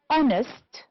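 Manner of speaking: honest with HON stressed, then falling; stress on first syllable. Shown as a demonstration. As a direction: lean on the start of honest. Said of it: "The first one".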